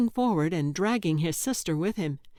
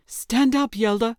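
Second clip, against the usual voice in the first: higher, louder urgent order; demanding; 4 semitones higher, 5 dB louder than usual. Acted. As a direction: snap her back to her feet. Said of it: "demanded her brother".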